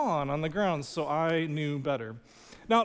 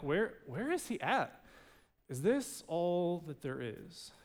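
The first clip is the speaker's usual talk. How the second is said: quiet wondering; 6 dB quieter, slower than usual. Retold or imitated. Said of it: "we're wondering".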